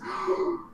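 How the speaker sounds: sharp intake of breath; delighted gasp. Acted. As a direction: gasp on recognising an old friend. Gloria greets Alan.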